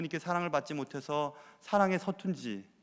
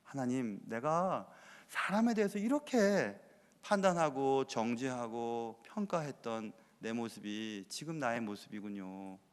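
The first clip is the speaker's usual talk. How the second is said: retold tearful prayer; 5 semitones lower, 4 dB quieter, slower than usual. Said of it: "걸으면서 울었어요".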